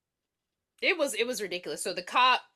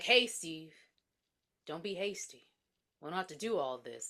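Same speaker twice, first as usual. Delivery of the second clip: softer, lower pleading; soft coaxing; 6 semitones lower, 5 dB quieter than usual. Retold or imitated. Parents coaxing Steve to stay calm. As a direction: coax him gently. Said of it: "they're like".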